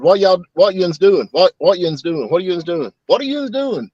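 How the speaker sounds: "yuns doing" slurred into one word; Southern run-on "what yuns doing"; run together as one word. Shown as a demonstration. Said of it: "it's like one word".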